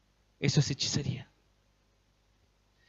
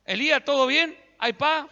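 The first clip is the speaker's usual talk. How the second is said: higher, louder nervous townsfolk; anxious greeting; 7 semitones higher, 4 dB louder than usual. Retold or imitated. Townspeople nervously greeting Elijah, higher and louder. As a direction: greet the prophet with worried eagerness.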